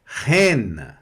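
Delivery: Reine with an open e, nearly silent ending; Reine, e sound in the middle; French word Reine. Shown as a demonstration. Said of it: "E mais I, som de E".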